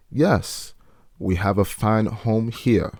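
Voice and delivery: put-on slow old Southern accent; imitated house slave accent, agreeing slowly. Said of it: "sorry for the accent, I just decided to go for it".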